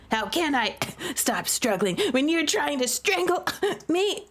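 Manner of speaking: complaining through laughter; laughing protest. Acted. Brother in a headlock, laughing as he complains. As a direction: laugh while gasping out the protest.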